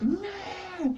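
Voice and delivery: high squealed "nah"; thin, high mock whine; high whiny noise. Venting about a one-sided crush, high mock whine. Acting own exasperated reaction.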